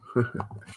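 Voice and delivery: short soft chuckle; soft laugh. Real, not acted. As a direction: chuckle to yourself. Laughs at own gold.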